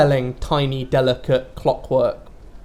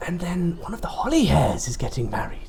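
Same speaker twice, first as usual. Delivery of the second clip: excited whisper; 3 semitones higher than usual. Acted. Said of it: "you sound quite excited when you said that".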